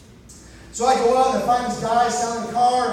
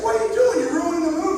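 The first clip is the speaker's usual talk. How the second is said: put-on exasperated teen; 5 semitones higher than usual. Teen snapping at mom's interruption.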